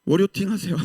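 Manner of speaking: normal talking voice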